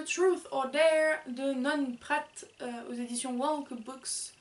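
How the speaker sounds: English names in a French accent. Real, not acted. Reviewer presenting an English book to viewers, French accent. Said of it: "mon super accent".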